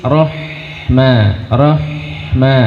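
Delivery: "rohma" with a light breathy h; thin ha. Shown as a demonstration. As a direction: keep the h thin and airy. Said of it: "Ha dia tipis". (ha tipis dengan hembusan nafas)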